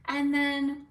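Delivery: ordinary delivery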